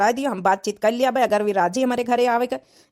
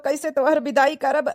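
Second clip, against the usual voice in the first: tearful; 2 semitones higher than usual. Acted. Brother to his sister about her wedding, tearful. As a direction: voice catching on a sob.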